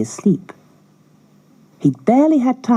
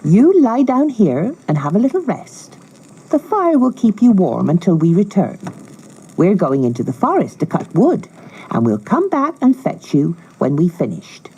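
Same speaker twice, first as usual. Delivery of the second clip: higher, coaxing stepmother tone; falsely sweet stepmother; 4 semitones higher than usual. Acted. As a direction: lull them into staying put. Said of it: "said their wicked stepmother".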